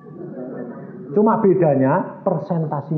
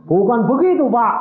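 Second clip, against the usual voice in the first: high-pitched mock tearful protest; acted tearful objection; imitated weeping man; 10 semitones higher, 6 dB louder than usual. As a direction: plead as if crying. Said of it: "Ini orang kepalanya nangis".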